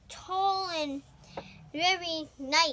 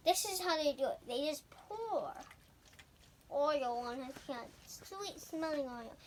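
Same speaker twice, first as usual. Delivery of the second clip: hushed prophet voice; 7 dB quieter than usual. Pretend. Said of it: "Let's pretend I'm Prophet Samuel".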